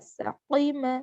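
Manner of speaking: सक़ीमा with a back-of-mouth q; clear qaf sound. Shown as a demonstration. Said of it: "क़ाफ की आवाज़". (सक़ीमा में क़ाफ की आवाज़)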